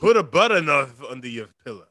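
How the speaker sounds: garbled words, mouth not cooperating; mouth not working. Real, not acted. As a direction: slur through it like a numb mouth. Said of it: "did you try to say butter knife?".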